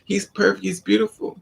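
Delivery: high starry-eyed wonder; high dreamy gushing. Retold or imitated. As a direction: gush like you've fallen hard. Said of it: "Then you look at him twice and now".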